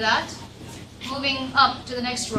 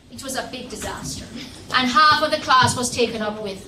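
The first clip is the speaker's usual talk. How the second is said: ordinary delivery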